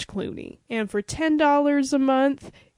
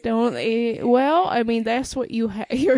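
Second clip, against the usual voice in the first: put-on French accent. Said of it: "French accent I could do".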